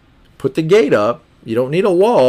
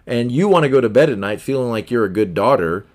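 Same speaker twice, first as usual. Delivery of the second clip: normal talking voice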